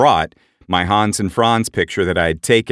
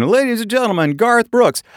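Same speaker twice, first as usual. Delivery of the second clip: announcer voice. Retold or imitated. Announcer introducing a singer to the crowd, booming. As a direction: call him out like an arena announcer.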